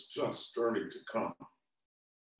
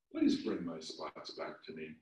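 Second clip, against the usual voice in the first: lower, softer, teary plea; quieter, sadder prayer; tearful prayer; 7 semitones lower, 7 dB quieter than usual. Acted. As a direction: pray softly through tears.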